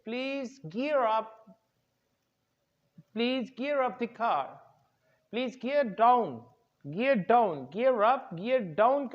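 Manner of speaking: gear up and gear down said very slowly; teacher drilling gear up; slow model phrase. Shown as a demonstration. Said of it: "you'll say".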